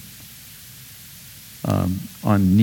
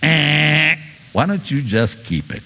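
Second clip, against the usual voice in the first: dismissive giver; 5 semitones higher than usual. Retold or imitated. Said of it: "that kind of giving that just goes".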